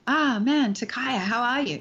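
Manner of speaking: a mild sad sigh on the greeting. Shown as a demonstration. Acting teacher demonstrating the sad take. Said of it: "I know I'm sad".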